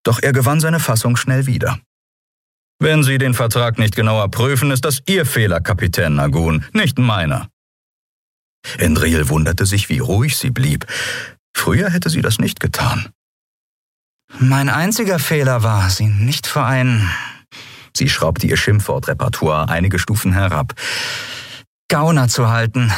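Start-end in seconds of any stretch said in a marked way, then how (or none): 2.8-7.5 a lightly voiced smug merchant, higher; smug businessman. Merchant dismissing the captain, lightly smug. 14.4-22.9 lightly voiced captain, higher and testy; annoyed young captain. Captain to merchant, lightly irritated.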